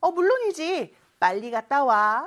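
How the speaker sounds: ordinary talk, nothing marked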